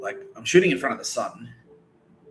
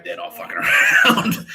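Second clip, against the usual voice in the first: loud cry breaking into laughter; hammed-up alarmed yell; mock warning shout; 3 semitones lower, 9 dB louder than usual. Retold threat to scare them.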